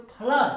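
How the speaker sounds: "फ्लड" with the double o as an "aa"-like vowel; pronunciation demo. Shown as a demonstration. Teacher showing learners the double-o sound, careful pronunciation demo. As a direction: stress the open vowel in "फ्लड". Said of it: "आ के रूप में आ रहा है".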